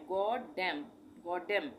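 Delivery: "गॉडेम" in two parts, closing on M; silent N. Shown as a demonstration. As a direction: model "गॉडेम" with no N after the M. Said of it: "एन silent कर देंगे". ("गॉडेम", आख़िर का न silent)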